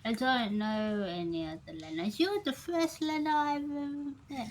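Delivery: mouth-full character voice. Acted. Bar regular asking a newcomer's name, high and mouth-full. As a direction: speak as if something is stuck in your mouth. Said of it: "Did you stick something in your mouth to, to speak like this?".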